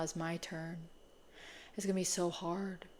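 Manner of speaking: half-joking pouty complaint; mock whine. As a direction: sulk quietly about the hard workout. Mock whining about working out.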